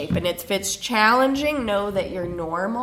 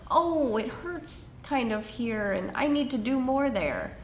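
whiny voice; 4 semitones higher than usual. Retold or imitated. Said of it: "that kind of whiny voice".

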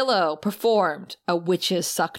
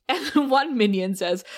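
normal talking voice

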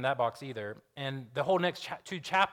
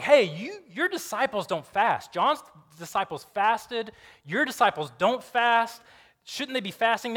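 high, loud, drawn-out accusation; acted-out indignant scribes; accusing challenge; 6 semitones higher, 5 dB louder than usual. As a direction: confront him, stretching the key words. Scribes challenge Jesus about fasting.

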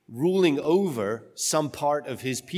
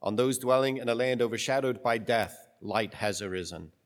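solemn, measured scripture reading; gospel reading. Acted.

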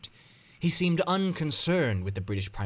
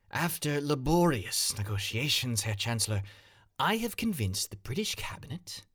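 proud statesman; 5 semitones higher than usual. Acted. Chamberlain proudly presents his offer.

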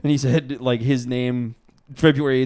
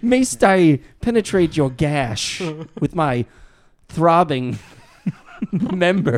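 slow, pompous faux-Shakespearean ask; drawn out like a courtly gentleman; mock archaic seducer; 4 semitones higher, slower than usual. Joking crude pickup line in mock old English.

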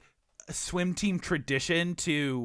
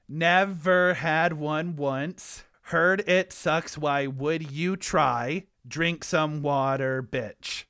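slow, measured haiku reading; haiku recital; 3 semitones lower, much slower than usual. Acted. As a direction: set out each syllable deliberately.

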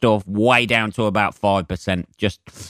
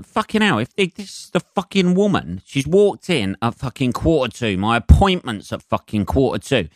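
retold fuming rant, pitch jumping higher at the start; stewing in it, muttering curses under breath; exasperated inner rant; 3 semitones higher than usual. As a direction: swear at the situation in disbelief. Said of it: "And I'm sitting there going".

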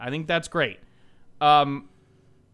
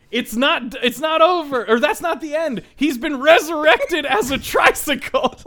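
high, loud wrestling announcer voice; wrestling commentator; 8 semitones higher, 4 dB louder than usual. Retold or imitated. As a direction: call it like a ringside announcer. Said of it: "which I turn into full wrestling commentator voice there".

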